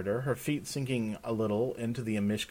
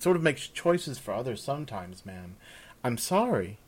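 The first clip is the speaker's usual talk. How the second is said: high-pitched, eager maid explaining herself; young servant girl, apologetic; 5 semitones higher than usual. Acted. Voices young maid Kirsten.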